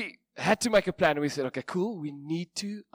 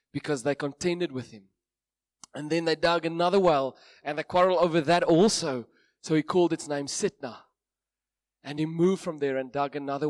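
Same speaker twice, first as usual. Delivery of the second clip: measured Bible reading to a congregation; scripture reading; 3 dB louder than usual. Acted. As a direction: read the passage with weight. Reads Genesis passage aloud.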